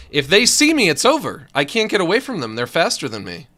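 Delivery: loud, high, frantic; panicked. Real, not acted. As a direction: rush it out in panic. Fleeing fast enemies.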